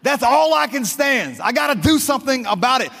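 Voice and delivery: fed-up cartoon sailor, lightly voiced; Popeye voice. Preacher quoting Popeye to the congregation, light impression. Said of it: "he would say this".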